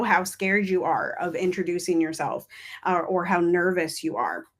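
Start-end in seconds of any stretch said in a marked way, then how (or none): none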